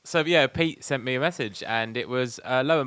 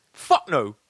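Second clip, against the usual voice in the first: wannabe gangster; 3 semitones higher, 3 dB louder than usual. Retold or imitated. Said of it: "hard basic roadman voices".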